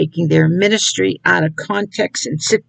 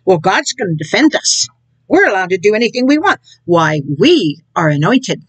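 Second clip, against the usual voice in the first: mock smug believer. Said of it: "think like this, pray like this, and act like this".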